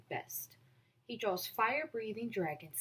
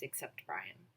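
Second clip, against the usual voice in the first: quiet; 13 semitones lower, 8 dB quieter than usual. A narrator's reading. Narrator sad aside.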